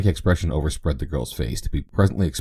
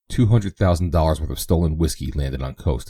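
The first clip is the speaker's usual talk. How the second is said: reading the headline. Acted. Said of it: "he read".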